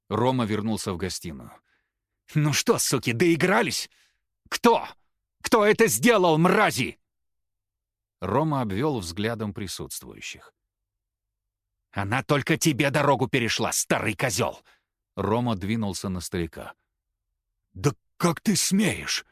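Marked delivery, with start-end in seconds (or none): 2.3-7.0 high, loud raging yell; furious accusation. A narrator's reading. Рома returns and screams at everyone, furious. 11.9-14.6 angry accusation. A narrator's reading. Рома accuses the old man. 17.7-19.3 high, loud, slow offended cry; indignant outrage. A narrator's reading. The old man retorts to Рома, indignant.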